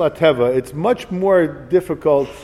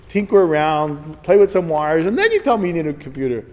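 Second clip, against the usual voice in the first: mock indignant rant. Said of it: "So I said".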